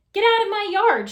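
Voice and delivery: high, loud yell; angry woman yelling at a pig in her yard; furious shout. A narrator's reading. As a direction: chase it off at full voice. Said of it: "shouted Eugenia".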